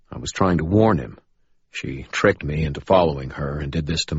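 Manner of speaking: put-on urgent young man. Thomas explains urgently.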